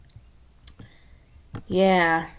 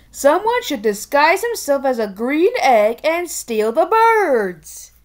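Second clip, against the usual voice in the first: higher, proud bumbling king; 5 semitones higher than usual. Acted. King repeating plan wrongly, higher proud bumbling voice. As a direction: say it with proud confidence, all wrong.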